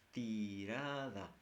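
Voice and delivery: Tirada said slowly, stretched; slow spelled word. Shown as a demonstration. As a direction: draw out Tirada for dictation. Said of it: "del verbo tirar". (Tirada, lento y marcado)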